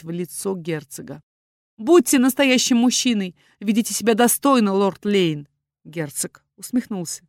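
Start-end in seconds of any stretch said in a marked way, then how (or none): 1.8-5.5 challenging demand. A narrator's reading. Daughter challenges the duke.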